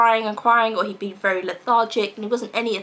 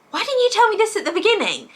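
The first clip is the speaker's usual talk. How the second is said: much higher, a touch louder, incredulous; exasperated outburst; 11 semitones higher, 3 dB louder than usual. Retold or imitated. Mum venting at the health visitor, high and incredulous. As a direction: throw the question up in disbelief.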